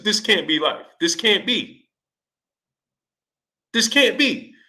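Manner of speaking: building disbelief that this is real; incredulous. Retold or imitated. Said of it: "I said".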